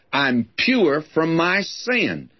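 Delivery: "pure" drawn out and lifted high; stress on pure. Shown as a demonstration. Preacher reading a proverb to the congregation, stressing "pure". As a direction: read it slowly, punching "pure". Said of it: "I'll emphasize the word".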